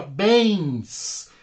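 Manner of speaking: bens held long on its own; teacher singling out bens, stretched; stressed syllable isolated. Shown as a demonstration. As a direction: draw out bens as the strong syllable. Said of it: "é a sílaba tônica da palavra parabéns".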